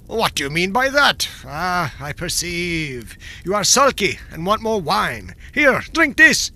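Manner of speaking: loud bullying king rising to a bark; angry tyrant. Acted. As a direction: force the drink on him.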